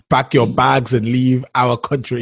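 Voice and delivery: slow, deliberate mock order to get out; drawn-out imitation of an unwelcoming native; mock xenophobic order. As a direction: spell it out slowly like a hostile local, in jest. Mimics hostile anti-foreigner line.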